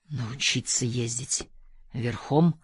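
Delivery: low, slow, quiet musing; pensive mutter. A narrator's reading. Narrator doubtfully repeats Kader's riding offer to himself, muttering. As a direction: mutter it to yourself, questioning. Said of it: "пробормотал я, размышляя".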